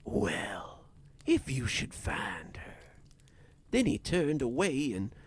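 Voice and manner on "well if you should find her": understated boredom, partly whispered; mildly indifferent, trailing into a whisper. A narrator's reading. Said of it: "sounding bored rather than mournful".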